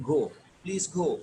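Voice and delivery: गो with the o held and stressed, please गो. Shown as a demonstration. Teacher showing polite go with the stress on o. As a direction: lean on the o in गो, politely. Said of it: "ओ पे stress आएगा".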